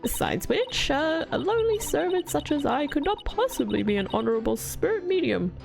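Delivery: a rambling, self-pitying grandma; old lady voice. Acted. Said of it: "I'm butchering this voice acting".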